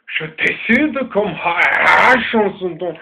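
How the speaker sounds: slow, heavy mock German accent; French read in a put-on German accent. To his sister, testing his German accent on camera. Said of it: "Est-ce que mon al-, mon accent al-, allemand est bien?".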